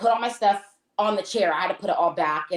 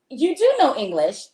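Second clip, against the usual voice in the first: indignant, higher-pitched callout; pointed mock outrage, pitched up; retold accusation; 5 semitones higher than usual. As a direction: act out catching them in a lie. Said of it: "now I can really go off".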